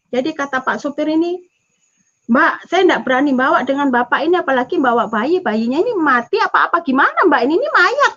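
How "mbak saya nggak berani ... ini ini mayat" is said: quick, agitated protest with pitch jumping on the last words; alarmed driver. Retold or imitated. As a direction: imitate a rattled driver. Retold alarmed driver refusing passengers.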